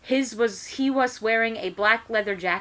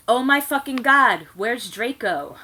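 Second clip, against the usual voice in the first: hammed-up dramatic dialogue; melodramatic gasp; 4 semitones higher, 7 dB louder than usual. A narrator's reading. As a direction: ham up the outrage. Dramatic reading of fan fiction.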